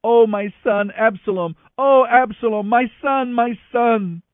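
loud, high cry of grief; weeping lament. A narrator's reading. King weeping over his son Absalom, loud lament. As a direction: wail the name at full voice. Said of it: "kept on weeping".

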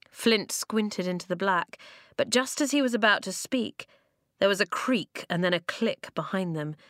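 usual speaking voice

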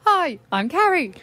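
put-on New Zealand accent. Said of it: "I'm so bad at it".

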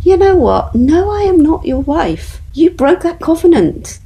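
rising to confront ex-husband, high and forceful; impassioned retort. Retold or imitated. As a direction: stand up and tell him no, high and strong. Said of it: "I was just calm".

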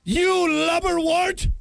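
put-on high, slow, fuming old-timey insults; frustrated insults. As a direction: sputter them out like an outraged gentleman. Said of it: "This guy is frustrated".

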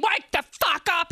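screaming. Acted. Pigtail trying to revive collapsed Shane, screaming. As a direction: yell to rouse someone unconscious. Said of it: "Pigtail's screaming".

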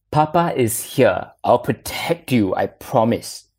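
a hint of Batman, slow at first; father doing a mild Batman voice to comfort his son; Batman impression. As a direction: reassure like a lightly voiced Batman. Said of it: "my best voice impression of Batman, low and gravelly".

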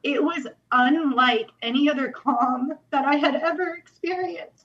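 fighting tears as she remembers; near tears. Real, not acted. Moved to tears telling the host about the calm. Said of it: "it makes me cry every time".

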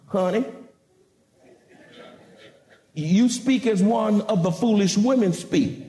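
gentle, measured correction of a wife; kindly rebuke. Acted. Job correcting his wife, kindly rebuke. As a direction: rebuke her kindly, with restraint. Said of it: "he rebuked her kindly".

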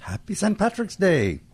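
bright, high, slow holiday greeting; festive greeting. Real, not acted.

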